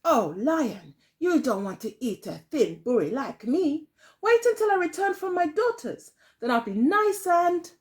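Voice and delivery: high, coaxing granny voice; pleading old woman. Acted. Old woman coaxing the hungry fox in a high voice. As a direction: talk the fox out of it sweetly.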